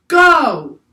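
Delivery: a high, loud, hollow creature call; hollow and haunted. Acted. Octopus speaks to the crew, hollow and haunted. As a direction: ring it like an ancient gong. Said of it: "hollow and haunted, like an ancient gong".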